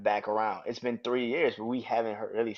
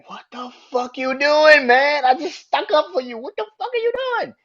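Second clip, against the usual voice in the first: high, outraged yell, last line faster; furious Jay; 10 dB louder than usual. Retold or imitated. Jay confronting Sami in the ring, enraged shouting. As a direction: demand it in shocked fury. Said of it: "Jay like".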